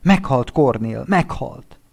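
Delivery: grieving husband, despairing; anguished repeat. Acted. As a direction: cry out that she died. Friend repeats the death.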